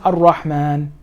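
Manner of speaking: Ar-Rahman ended on a closed n; stop after Rahman. Shown as a demonstration. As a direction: halt at the end of Ar-Rahman. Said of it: "I were to stop right there".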